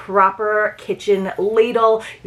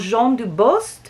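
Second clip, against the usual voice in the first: French accent; 4 semitones higher, slower than usual. Shown as a demonstration. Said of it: "I try to do my best French accent for you".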